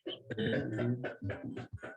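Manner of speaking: soft chuckle after a punchline; laugh. Real, not acted. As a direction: laugh quietly at the joke.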